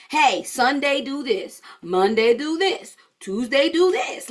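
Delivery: slow, measured listing of day-by-day orders; spelled-out instructions. Acted. Coach voicing prep guide to beginners, slow instructing. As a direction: lay out each step slowly and evenly.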